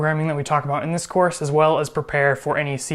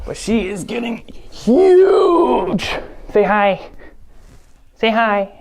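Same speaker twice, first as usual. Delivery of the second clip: excited puppy talk; 6 semitones higher, 3 dB louder, slower than usual. Real, not acted. Showing off her puppy.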